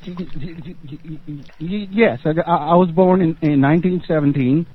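put-on high, stammering old-man voice; elderly man. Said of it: "elderly voice".

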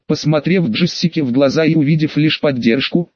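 ordinary delivery, nothing marked

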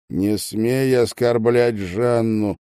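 plain reading voice

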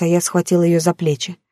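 plain reading voice

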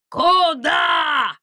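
high, loud scream; frantic yell. A narrator's reading. Landysh Petrovich yelling at the escaping pair. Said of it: "истошно завопил".

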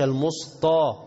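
"المسطى" with ط in place of ت; wrong heavy ta. Shown as a demonstration. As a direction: thicken the t in "المسطى". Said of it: "خلي الت طا". («المسطى» بتفخيم التاء خطأً)

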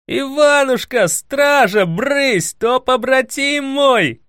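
high excited shouting at the guards; loud yell. A narrator's reading. Emelya shooing the guards from his friend, yelling. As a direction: wave the guards off at full voice. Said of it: "завопил вдруг сидящий за столом Емеля".

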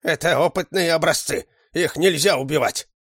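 high-pitched, urgent cry; urgent protest. A narrator's reading. Pleading to spare the test specimens, urgent high cry.

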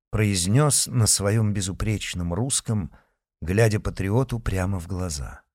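ordinary delivery

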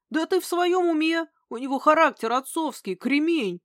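indignant. Acted. Old man indignant at suicide idea.

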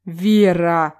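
host scolding a giggling player, loud and reproachful; exasperated call. Acted. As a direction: call her name out in reproach.

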